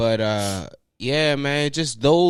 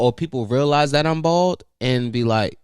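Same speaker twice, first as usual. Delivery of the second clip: ordinary talk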